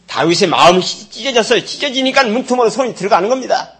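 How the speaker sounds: high, loud preaching burst; impassioned. Real, not acted. Pastor preaching to the congregation with rising passion.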